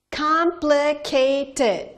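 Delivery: Complicated said very slowly, syllable by syllable. Shown as a demonstration. Teacher counting syllables of Complicated for class, slowly. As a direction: spell it out with your voice. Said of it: "four syllables".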